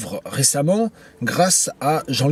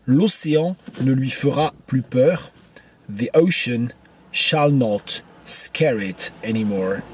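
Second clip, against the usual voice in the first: poetry reading; slower than usual. Acted. Lit le vers, puis sa traduction.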